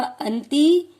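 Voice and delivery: अंति called out loudly with a rising end; loud recitation. Shown as a demonstration. Teacher leads the class aloud, अंति said loudly with a rise. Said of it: "जोर जोर से बोलेंगे".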